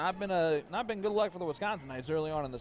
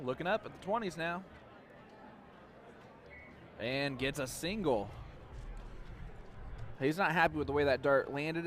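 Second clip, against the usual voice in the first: radio play-by-play; 3 dB quieter than usual. Acted. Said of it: "do some, uh, radio play-by-play".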